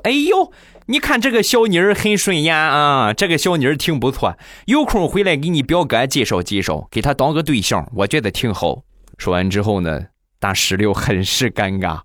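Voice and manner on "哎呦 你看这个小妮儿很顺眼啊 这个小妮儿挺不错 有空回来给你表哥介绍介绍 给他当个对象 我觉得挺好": lightly voiced chatty grandma, high start; a hint of a doting old granny. Grandma praises the girl in the photo, lightly voiced doting granny. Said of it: "他奶奶…指着这个照片儿就说".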